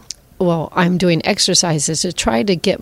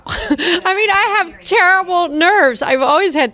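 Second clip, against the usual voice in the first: high, laughing through the words; laughing confession; 11 semitones higher, slower than usual. Real, not acted. Performer admitting stage fright to interviewer, laughing. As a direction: confess it through real laughter, pitch jumping up.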